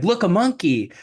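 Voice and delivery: high, loud sudden exclamation; mock alarm. Cinderella distracting the prince to get away, mock alarm. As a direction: blurt it out as a distraction.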